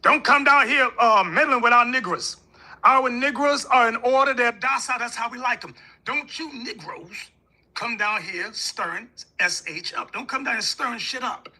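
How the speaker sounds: mock the smug old Southern segregationist, warning them off; lightly voiced Southern white man telling outsiders to stay out; Southern racist. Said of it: "in the South".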